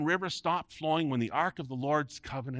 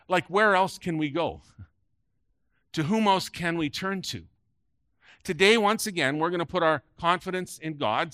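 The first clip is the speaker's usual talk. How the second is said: rising preaching call; 3 semitones higher, 5 dB louder than usual. Real, not acted. Preacher rallying congregation.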